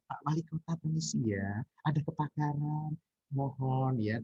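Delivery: soft, hesitant, courteous plea; politely whisper-soft even with a fire; overly polite. Shown as a demonstration. Teacher mocks asking the mayor politely during a fire, soft and hesitant. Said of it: "masa kita mau ngomong".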